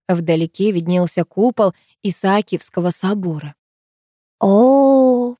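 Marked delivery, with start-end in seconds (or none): 4.4-5.3 high, long admiring oh; lingering high exclamation; drawn-out oh. A narrator's reading. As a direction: stretch the oh with relish. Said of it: "протянула Арина".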